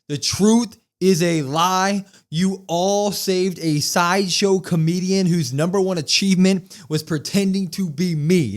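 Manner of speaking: slow, loud, heavy wrestling promo delivery; mock Cena promo. Host imitating Cena's promo to the crowd, slow and loud. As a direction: lean on each word like a heel promo.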